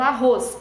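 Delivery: teacher's demo "arroz", weight on the roz; stress on final syllable. Shown as a demonstration. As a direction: punch the second syllable of arroz. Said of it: "Ros, é o ros final".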